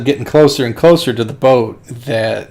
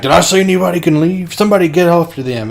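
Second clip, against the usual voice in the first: higher-pitched mock indignant boss; mock outraged order; 6 semitones higher than usual. Deacon ordering his men after the boat, mock outraged. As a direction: bark it like an irked leader, lightly.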